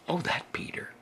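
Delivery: a hint of a fond, fed-up mom; exasperated mother. Mother finds clothes missing.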